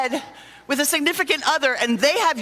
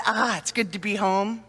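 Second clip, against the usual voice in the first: relieved sigh; 4 semitones lower than usual. Retold or imitated. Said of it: "when they say that".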